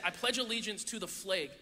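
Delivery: put-on classroom pledge in a Wisconsin accent. Wisconsin classmates reciting the Pledge of Allegiance, Wisconsin accent. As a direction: imitate Wisconsin vowels, reciting evenly. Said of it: "everybody in Wisconsin talked different than I did".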